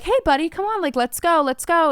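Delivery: light, high coaxing; coaxing a dog. Retold or imitated. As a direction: coax a reluctant dog along.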